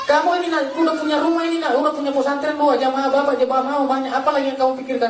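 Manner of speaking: a mother begging her son to come back; pleading mother. Retold or imitated. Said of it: "Terus mama saya bilang".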